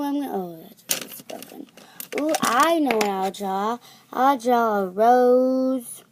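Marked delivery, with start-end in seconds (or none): 2.2-6.0 excited. Real, not acted. Drawn-out excited idea.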